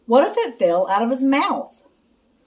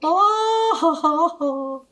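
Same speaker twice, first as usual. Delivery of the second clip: high ha ha ha, fading; mock laughing at a dentist pun; acted laugh; 7 semitones higher, slower than usual. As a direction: laugh at the joke. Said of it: "They laughed together".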